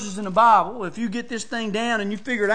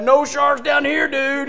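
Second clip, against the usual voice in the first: Brother Schlechte; 4 semitones higher, 5 dB louder, slower than usual. Retold or imitated. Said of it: "you know how Brother Schlechte is".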